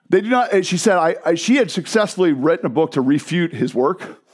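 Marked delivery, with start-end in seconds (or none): 0.1-0.5 higher-pitched imitated German accent. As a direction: put on a thick German accent. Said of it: "she was a thick German accent".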